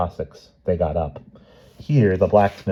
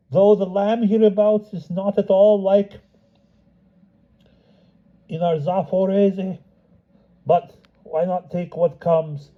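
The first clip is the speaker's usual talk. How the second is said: much higher, homely Cossack voice; simple Cossack; 12 semitones higher than usual. Acted. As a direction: answer the empress plainly and folksy. Cossack answering the empress.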